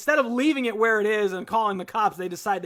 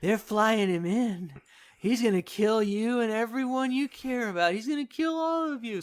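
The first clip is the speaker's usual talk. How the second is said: imitated threat. Voices dying Blue Man's threat.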